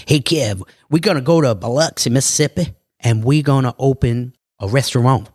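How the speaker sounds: a hint of Biloxi twang, retelling his pitch; Biloxi accent. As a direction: imitate a friend's Southern Biloxi accent, pitched a little up. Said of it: "'cause in his Biloxi".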